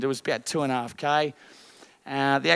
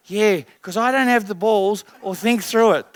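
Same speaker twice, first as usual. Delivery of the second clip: a hint of a shamed father; mild hammed-up confession; sheepish dad admitting; 3 semitones higher, 4 dB louder than usual. Dad admitting his fault to his daughter, lightly voiced. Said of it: "Now, I'm dramatising".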